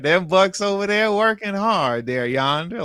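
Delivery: slow drawl, mocking a plantation owner. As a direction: ham it up as a plantation owner barking at workers. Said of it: "She sound like a plantation owner".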